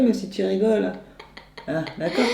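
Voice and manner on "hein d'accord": laughing. Real, not acted. Laughing while scolding.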